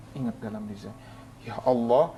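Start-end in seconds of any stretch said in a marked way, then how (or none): 1.4-2.1 teriakan memohon. Retold or imitated. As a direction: implore God, stretching words and climbing in desperation. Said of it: "saya berteriak". (menirukan doa sambil berteriak)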